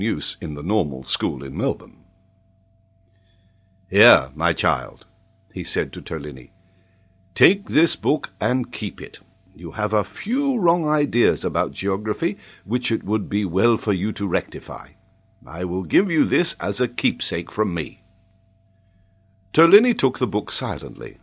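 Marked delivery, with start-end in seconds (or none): 3.9-5.1 kindly professor. Acted. Paganel kindly addresses the child. 7.3-18.0 kindly professor. Acted. Paganel gives the child advice.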